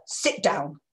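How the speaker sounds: curt blunt sit down; a short cold command; mild aggressive order. Shown as a demonstration. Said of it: "because that's aggressive".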